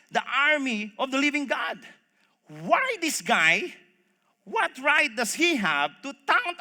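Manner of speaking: indignant, rising in volume and pitch; offended. Acted. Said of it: "he got offended".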